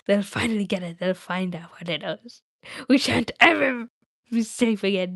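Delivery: lightly voiced anxious creature; a hint of hissy creature muttering; Gollum, fretting. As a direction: worry aloud as Gollum, then urge haste.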